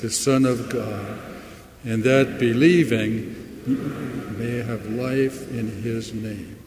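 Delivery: slow unison reading, a first name said where "you" stood; slow reading with own name. Shown as a demonstration. Pastor reads along as the congregation says their names, slowly. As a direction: read it slowly, putting in your own name. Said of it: "Put in your first name instead of the word you".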